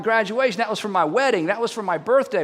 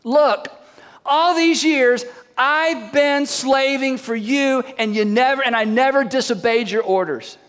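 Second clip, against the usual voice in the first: resentful son; 4 semitones higher, slower than usual. Acted. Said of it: "he answered his father".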